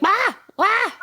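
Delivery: short, high-pitched wailed yelps; imitated screaming. Telling co-host about a man who can only scream, imitated high screams. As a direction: mimic a scream in sudden high bursts. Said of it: "he's, like, always, like, screaming".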